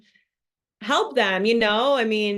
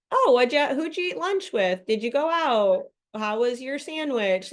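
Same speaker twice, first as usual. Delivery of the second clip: chirpy questions; 5 semitones higher than usual. Shown as a demonstration. Asking spouse about his day.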